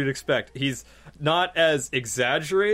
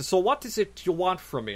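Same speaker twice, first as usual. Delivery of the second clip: light Tommy imitation; 6 semitones higher than usual. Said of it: "he was saying this thing about".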